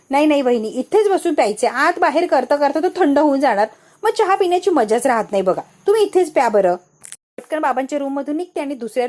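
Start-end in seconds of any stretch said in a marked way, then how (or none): 0.1-6.8 loud insisting. Acted. Aunt insists sister-in-law drinks tea.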